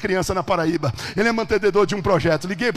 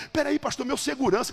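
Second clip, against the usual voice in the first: tag protest; 8 semitones higher than usual. Retold or imitated. Acted protest from reluctant doctor.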